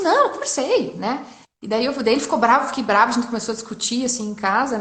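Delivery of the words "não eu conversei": higher-pitched insistent reply; retold insistence. Wife retelling her answer to husband, insistent. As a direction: answer back defensively, pitched up.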